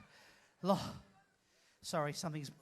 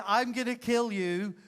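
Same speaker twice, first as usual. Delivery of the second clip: with venom. Shown as a demonstration. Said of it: "You say those words with venom".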